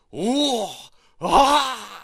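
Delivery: loud high cheers of the crowd; crowd cheering. Acted.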